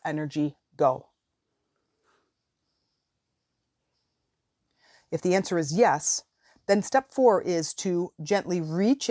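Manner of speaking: measured guiding voice with long pauses; guided visualization. Real, not acted. Coach guiding listeners to release a limiting belief, guided meditation voice. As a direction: lead them step by step, leaving room after each prompt.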